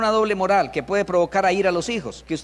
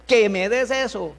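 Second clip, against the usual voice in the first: slower, insistent mock demand; impatient demand; 2 semitones higher than usual. Parent snatching something from child, acted impatience. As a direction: press each word as an impatient parent. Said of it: "a ser impaciente en ese caso".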